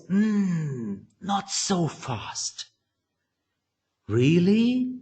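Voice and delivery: high, questioning sceptic voice; consistent doubter. Acted. Doubter challenging the trade at the inner meeting, sceptical. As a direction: draw it out doubtfully, rising into each question. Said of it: "This is the voice of your consistently doubters".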